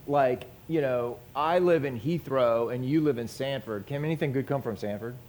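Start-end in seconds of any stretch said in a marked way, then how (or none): 1.3-5.2 a touch of quicker, softer snobbish sneer; snooty. Shown as a demonstration. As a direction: say it like a small-town snob looking down on the next town. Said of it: "just snooty".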